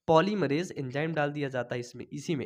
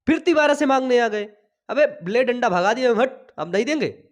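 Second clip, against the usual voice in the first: mock scolding; 3 semitones higher, 5 dB louder than usual. Teacher acts chasing students off.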